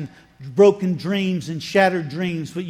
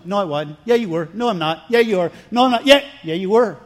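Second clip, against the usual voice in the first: playground bickering; 5 dB louder, faster than usual. Retold or imitated. Angel and Sarah arguing about her laugh, building bicker. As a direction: escalate like kids arguing.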